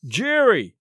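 excited cry. A narrator's reading. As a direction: cry out the name to a friend. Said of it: "cried the tall man".

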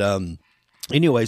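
ordinary talk

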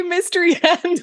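high-pitched, excited emphasis; exclamatory. Shown as a demonstration. Co-host happy at a favorite's return, exclamatory. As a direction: say it with loads of exclamation marks. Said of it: "with a load of exclamation marks".

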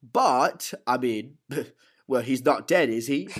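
acted, goading character quote; lightly voiced taunting gangster; Alfie. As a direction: needle your visitor in a put-on character voice. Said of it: "And he goes".

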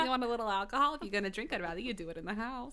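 lightly voiced cartoon mom; a hint of an indulgent cartoon mother; Linda Belcher. Mom offers drinks at home, lightly voiced impression. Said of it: "Linda Belcher".

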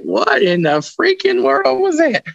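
high, slow retold shock; startled. Ghost hunter recalling hearing the ghost, high stunned disbelief. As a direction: imitate your own stunned reaction, pitched high and drawn out. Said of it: "And I was like".

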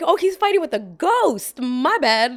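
mock apology. Joke about the ghostly wife.

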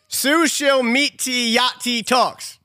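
slow, puzzled misreading; misread slowly. Shown as a demonstration. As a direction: sound it out word by word. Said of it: "you're saying the wrong word".

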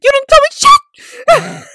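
high, drawn-out mock-indignant protest; retold indignant outburst. Worker contradicts her manager, retold indignant outburst. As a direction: protest it high and slow, hammed-up.

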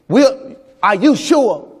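slow, doubtful wife asking if he's sure; a wife questioning her husband, slow and doubting. Retold or imitated. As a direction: play his wife, slow and searching. Wife confronting pastor in his face.

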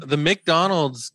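"McDonald's" said oddly, with the first syllable as a full "Mick"; odd pronunciation. Real, not acted. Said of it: "I said that weird".

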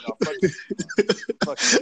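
mock yell. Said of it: "But here, it's like".

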